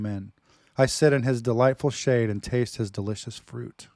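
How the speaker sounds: dramatic reading. Acted. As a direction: declaim it like a lover's poem. Reads love poem dramatically.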